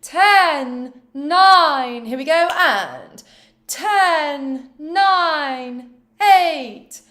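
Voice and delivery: a touch of a stage actor; Shakespearean voice. Shown as a demonstration. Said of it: "a little bit more Shakespearean".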